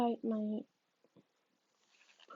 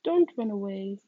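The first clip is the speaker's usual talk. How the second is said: raised firm repeat; repeated plea; 2 semitones lower, 7 dB louder than usual. Acted. Psychic repeating her warning to the boy, louder. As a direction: say it again, insisting. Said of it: "she repeats".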